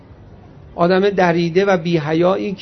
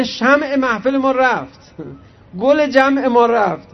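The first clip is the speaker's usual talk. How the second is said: slow, higher-pitched lament; stretched-out mild wail of loss; mock mourning; 5 semitones higher, slower than usual. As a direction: imitate mourners lamenting, drawn out. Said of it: "اونا عزا بگیرن".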